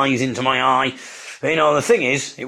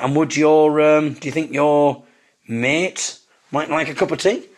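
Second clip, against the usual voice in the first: self-conscious; 3 semitones higher than usual. Retold or imitated. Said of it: "I got a bit self-conscious again".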